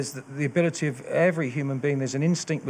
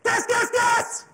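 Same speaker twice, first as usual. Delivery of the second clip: very high, drawn-out drill shout; shouting in earnest; much slower than usual. Shown as a demonstration. Instructor shows trainee the gas warning, full shout. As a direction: shout it like you mean it. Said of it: "No, I mean it".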